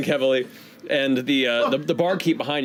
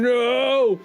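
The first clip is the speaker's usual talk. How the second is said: higher, drawn-out mock "no"; hammy stage villain; 9 semitones higher than usual. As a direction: recoil in theatrical horror. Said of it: "King Drasig is slowly recoiling".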